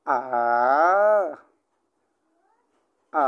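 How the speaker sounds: "আ" dipping down then back up, Mandarin third tone; third tone demo. Shown as a demonstration. Teacher demonstrating third tone to class, dipping "আ". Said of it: "এই টোনের উচ্চারণ ভঙ্গিটা হচ্ছে".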